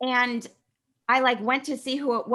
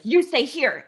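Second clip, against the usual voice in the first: firm, louder command, higher; bossy order; 4 semitones higher, 4 dB louder, slower than usual. Retold or imitated. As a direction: order them to stay put like the boss. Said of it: "Like, I was the boss".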